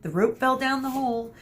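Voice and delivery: high mocking echo; mimicking Theseus. Mino echoing Theseus to friends, high mocking copy. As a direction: parrot the dumb answer.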